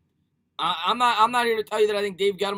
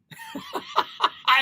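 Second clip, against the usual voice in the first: laughing. Real, not acted. Laughs at a chat message.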